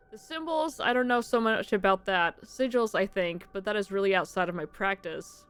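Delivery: lightly voiced mystical fortune teller; a hint of a knowing medium.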